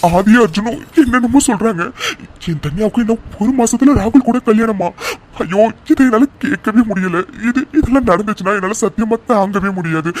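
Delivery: a mother's anguished wail at hearing the wedding date; distressed outcry. Acted. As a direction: cry out in dismay at the news.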